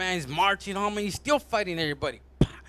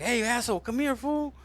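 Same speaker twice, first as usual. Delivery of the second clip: higher teasing call-out; calling over; 6 semitones higher than usual. Acted. Laid-back organs heckle the asshole, calling out. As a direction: call him over, pitch climbing.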